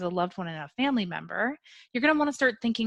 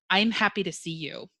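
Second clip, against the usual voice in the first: flat, unenthusiastic. Shown as a demonstration. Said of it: "let's take the example if I said".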